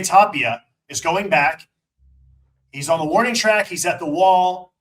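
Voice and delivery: building play-by-play call; play-by-play demo. Shown as a demonstration. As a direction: call it like live radio. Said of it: "So describe the outfield".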